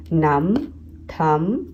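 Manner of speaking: नम and थम ending on M alone; final B dropped in नम and थम; silent B. Shown as a demonstration. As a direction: close नम, थम on M with no B. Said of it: "इसमें हम म बस बोलते हैं".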